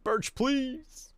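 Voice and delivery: high, put-on sassy voice; a sassy high quip; mock sass. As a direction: camp high-pitched comeback. Pun joke.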